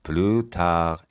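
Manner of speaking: "plus" said with no s sound; silent s. Shown as a demonstration. Teacher showing learners "plus tard", s left silent. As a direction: say "plus" ending on the vowel, s silent. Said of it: "اسش هم به هیچ وجه تلفظ نمیشه".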